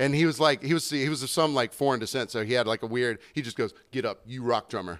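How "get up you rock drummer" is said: blunt, primitive, dumb-sounding caveman voice. Retelling what a bass player said to him, in a caveman-like voice. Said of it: "like he was a caveman or something".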